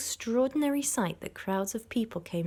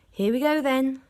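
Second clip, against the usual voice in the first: raised, higher eager shout; 6 semitones higher, 6 dB louder than usual. A narrator's reading. Farmer Bean shouting as the tractors start. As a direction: yell it as the digging starts. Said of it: "shouted Bean".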